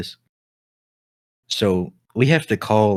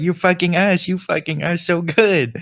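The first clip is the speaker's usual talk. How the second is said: much higher mock Asian accent, sing-song; 8 semitones higher than usual. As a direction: play the cartoon saleswoman with a mock Asian accent. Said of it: "And she's like".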